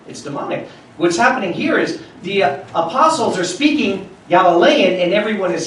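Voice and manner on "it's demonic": softer, nearly whispered; preacher quietly driving home that it's demonic; hushed repeat. Real, not acted. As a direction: drop to a near whisper for emphasis. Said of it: "repeated softly, almost whispered".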